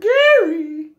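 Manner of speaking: loud, high call across the room; calling out a name. Real, not acted. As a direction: shout his name out to greet him. Greeting viewer in chat.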